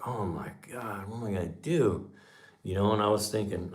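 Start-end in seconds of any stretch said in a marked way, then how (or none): 0.1-2.1 quiet dismay. Retold or imitated. Man recalls hearing the car was sold, quiet dismay. Retelling his dismay at bad news.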